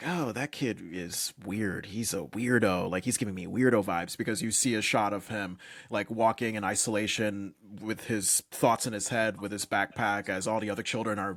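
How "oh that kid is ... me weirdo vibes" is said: put-on whisper, lower pitch. Retelling a wife's remark while watching a show: imitating Tony whispering. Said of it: "whispering to me".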